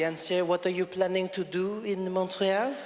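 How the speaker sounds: put-on flirty French-accented border officer; sexy French accent. Border officer flirting with a traveller, sexy French accent. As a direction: ask it seductively with a French accent. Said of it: "It was really sexy".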